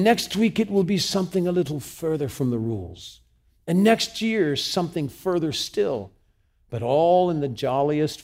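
a hint of an English accent in a grand speech. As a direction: read it out in a mild English accent. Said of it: "try it with an English accent".

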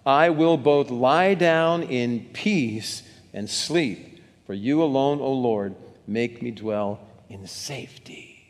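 slow, strong group reading; slow unison scripture reading; read out loud. Shown as a demonstration. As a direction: read it aloud slowly, together and strong. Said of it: "read it out loud and strong".

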